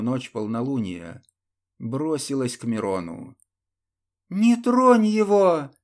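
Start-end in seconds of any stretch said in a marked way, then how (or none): 4.3-5.7 high, loud furious cry; angry outburst. Acted. Ludmila shields Miron from the templar, shouting in high fury. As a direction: blurt it out in fury to protect him. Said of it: "выпалила гневно Людмила".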